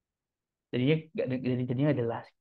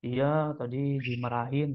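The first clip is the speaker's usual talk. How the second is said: low-key report of being scolded; low intonation. Shown as a demonstration. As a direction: keep the intonation down, subdued. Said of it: "intonasinya rendah gitu".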